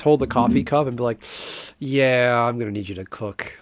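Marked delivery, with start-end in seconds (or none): 1.8-3.6 Office Space boss. Retold or imitated. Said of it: "Do they pull the Office Space".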